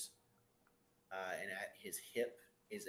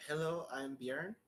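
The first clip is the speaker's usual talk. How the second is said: put-on thick Elvish accent; 4 semitones higher than usual. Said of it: "It's a very thick Elvish accent".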